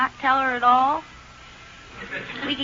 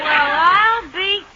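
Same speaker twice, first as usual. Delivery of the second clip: loud laughter trailing into slow words; relieved laughter; 6 semitones higher, 4 dB louder, much slower than usual. Acted. Wife laughs loudly at how easily the maid agreed. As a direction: laugh out loud, then drag it slowly.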